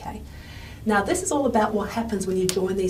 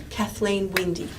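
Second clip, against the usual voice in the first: Kathleen Windy said slowly, strongest on "Win"; main stress on WINDY. Shown as a demonstration. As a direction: put the sentence stress on Windy, after Kathleen. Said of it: "Windy is getting the main sentence stress".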